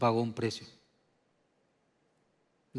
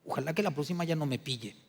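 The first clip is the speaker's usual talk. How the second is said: inner scheming thought; 5 dB quieter than usual. Retold or imitated. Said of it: "estás otra vez pensando en tu mente".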